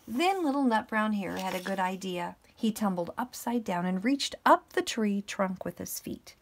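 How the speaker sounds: measured, projected storybook reading; story narration. A narrator's reading. Teacher reading a bedtime picture book to pupils, story narration. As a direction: read it out clearly to little children.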